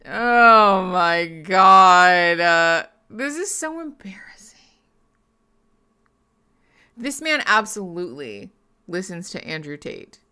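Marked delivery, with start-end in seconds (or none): 0.0-4.6 drawn-out groan then whisper; embarrassed whisper. Real, not acted. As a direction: cringe and whisper it. Secondhand embarrassment.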